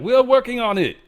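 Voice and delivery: high, mock-innocent voice; high put-on voice for China. China answers the prong jab, in a high mocking voice. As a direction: squeak it out like a defensive kid. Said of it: "China's like".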